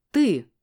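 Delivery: «Ты» отдельно, громко и выше; выдели слово «Ты» голосом и паузой; ударение на «Ты». A narrator's reading. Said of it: "выделила я слово". (громкое подчёркнутое «Ты»)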